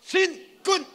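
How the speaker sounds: high, loud drill cry; soldier's shout, full force; military salute shout. Shown as a demonstration. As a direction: lead the crowd in an army salute. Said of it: "자, 시작".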